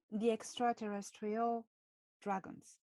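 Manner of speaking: extraterrestrial with a French lilt; French accent. Shown as a demonstration. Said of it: "how I say extraterrestrial with my French accent".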